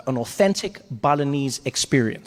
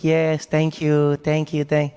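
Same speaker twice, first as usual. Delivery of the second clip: cold forced thanks; 3 semitones lower, much slower than usual. Retold or imitated. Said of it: "his face completely changed".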